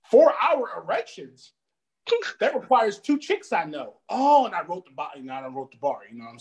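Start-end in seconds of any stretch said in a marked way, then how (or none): 0.1-3.9 incredulous. Retold or imitated. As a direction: stretch it out in disbelief. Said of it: "I'm like".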